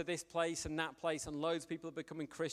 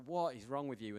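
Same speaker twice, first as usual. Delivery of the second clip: lower, quieter mock despair at What; quieter disbelief; 4 semitones lower than usual. Preacher to his friend Mark, lower and more quietly exasperated. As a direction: murmur it, half amused. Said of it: "And I was like".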